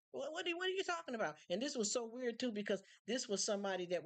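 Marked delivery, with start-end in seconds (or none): 0.1-1.4 indignant disbelief. Retold or imitated. Her indignant retort, high fast.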